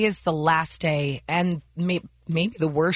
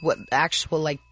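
real hoarse, raspy voice; 2 semitones lower than usual. Real, not acted. Host explains last night's liquids to her co-hosts, raspy. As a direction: talk through a raspy, worn-out voice. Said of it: "raspiness that you have in your voice right now".

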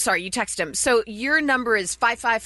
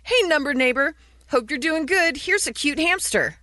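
upbeat, higher-pitched hello; friendly greeting; 4 semitones higher than usual. Acted. Host reads a text offering a cute hamster, friendly. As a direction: act out a chirpy message to a stranger.

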